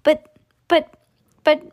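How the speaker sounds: high, loud, broken-off protests; spluttering shriek. A narrator's reading. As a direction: splutter it in mock panic. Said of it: "shrieked Missus Salt".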